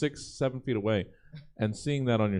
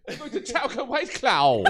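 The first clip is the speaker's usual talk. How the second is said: shouting; 12 semitones higher than usual. Acted. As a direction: belt it out like a battle cry. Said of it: "You didn't have to shout that at me".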